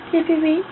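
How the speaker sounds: voiced bird chirps with a rise at the end; chirped cheeps. Shown as a demonstration. Answering the prompt to make bird sounds, chirped lightly. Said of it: "Say cheep, cheep".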